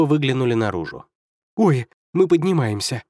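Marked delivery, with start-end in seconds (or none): 1.6-3.0 a startled "oh", raised and louder; blurted surprise. A narrator's reading. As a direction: let it slip out as they lift off. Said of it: "вырвалось у Берта".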